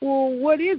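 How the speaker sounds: acted, teasing, sneering, mocking taunting tone. Recalling answering her with a blank look while trying to mock her, retelling a mocking reply. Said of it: "trying to mock her".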